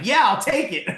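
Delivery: high, loud imitation of a mentor; eager mock reply. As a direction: jump on the offer, then laugh. Mentor's eager reply, retold with laugh.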